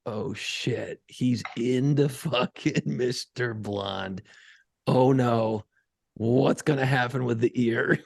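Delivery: low, slow inner worry. Retold or imitated. Dad realizing his son likes Mister Blonde, retold dread. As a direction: play a dawning "oh no", low and drawn out. Dad's worried thought as son laughs.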